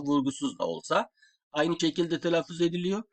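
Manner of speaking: normal talking voice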